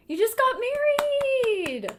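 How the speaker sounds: loud, high excited cheer. Real, not acted. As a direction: cheer the news loudly. Excited at chat news.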